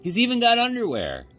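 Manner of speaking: high loud mocking boy voice; jeering boy. A narrator's reading. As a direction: laugh at the doll's underwear. Boy mocks the rabbit.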